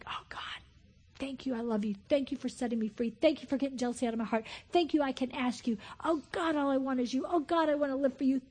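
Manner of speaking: quiet, tender prayer voice; soft prayer. Acted. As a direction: pray it gently under the breath.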